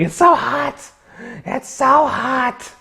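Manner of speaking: high-pitched exaggerated complaint; mock heat whine. Streamer griping about Florida heat, high mock whine. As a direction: whine it high, stretching the repeat. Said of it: "and I was like".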